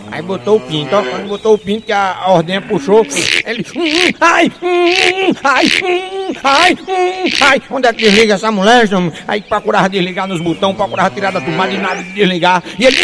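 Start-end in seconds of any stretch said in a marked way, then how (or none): 3.8-7.6 high, loud yelps of pain, in bursts; mock agony, hum and ai over and over; pained moaning. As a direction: moan and yelp as it keeps pulling. Milking machine pulling on him.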